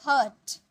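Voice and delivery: हर्ट as "huht", no r sound; silent r. Shown as a demonstration. Teacher answers own question for learners, r silent. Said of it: "इसे हम क्या बोलेंगे".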